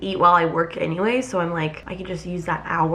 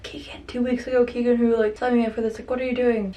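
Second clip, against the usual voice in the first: whispered self scolding; 4 semitones higher than usual. Retold or imitated. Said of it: "I'm like".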